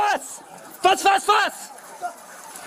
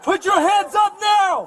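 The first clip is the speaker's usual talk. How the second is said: cover me shout; slower than usual. Real, not acted. Police commands armed suspect.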